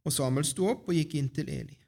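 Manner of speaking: measured Bible storytelling with pauses; scripture reading. A narrator's reading. Reader shares Samuel's story with the congregation, scripture reading. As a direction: read the chapter out clearly to the congregation. Reads a Bible chapter aloud.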